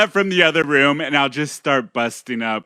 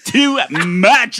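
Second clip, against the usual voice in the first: imitating Rob; 6 semitones higher, much slower than usual. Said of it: "at any given moment and goes".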